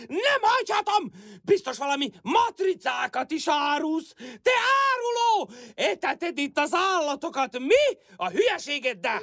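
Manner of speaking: worked-up accusing rant; agitated scolding. Acted. Old woman accusing her neighbour of being a traitor, agitated scolding. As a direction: scold him in indignant bursts. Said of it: "Nyugodjon már meg!".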